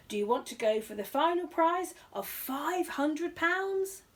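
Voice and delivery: high, slow showman tease; host tempting the bear with the jackpot; game show host. A narrator's reading. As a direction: dangle the big prize. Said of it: "he said".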